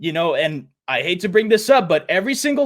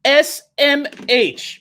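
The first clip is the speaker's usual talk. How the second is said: mock announcer; 8 semitones higher, much slower than usual. Mock intro voice.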